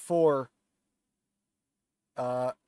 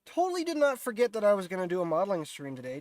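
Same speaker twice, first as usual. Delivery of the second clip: sarcastic; 4 semitones higher, faster than usual. Pretend. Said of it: "just a joke".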